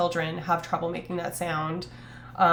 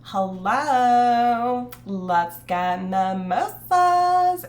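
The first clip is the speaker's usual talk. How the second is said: slow, louder stereotyped gay voice; 4 semitones higher, 6 dB louder, much slower than usual. Retold or imitated. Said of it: "when we talked about gay voice".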